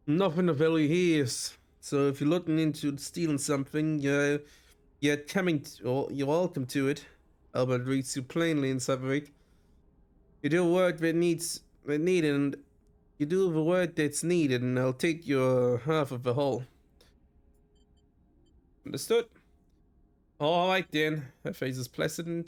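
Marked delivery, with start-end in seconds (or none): 0.1-7.0 lightly put-on muddled Scottish-like accent; hint of a makeshift Scottish accent. Elma warns a would-be thief, in a put-on accent. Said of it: "that terrible accent I'm putting on". 10.4-21.3 put-on lightly done makeshift Scottish accent; firm terms in a loose put-on accent. Elma sets terms with the newcomer, in a put-on accent. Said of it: "that terrible accent I'm putting on".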